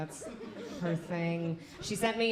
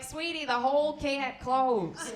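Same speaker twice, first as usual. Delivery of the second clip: higher, slower condescending sweetness; gynecologist's gentle correction; 6 semitones higher, 3 dB louder, slower than usual. Retold or imitated. Gynecologist correcting the comedian from the crowd, condescending. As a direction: patronize her kindly. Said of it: "she was like".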